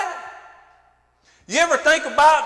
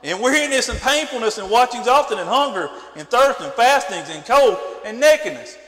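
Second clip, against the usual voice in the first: measured, lower-pitched reading of scripture; 3 semitones lower than usual. Acted. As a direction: read the old text aloud with weight, like a preacher.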